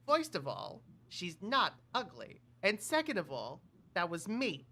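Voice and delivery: lightly voiced Brooklyn cartoon rabbit; a hint of Bugs Bunny; Bugs Bunny impression. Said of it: "I need to work on my Bugs impression".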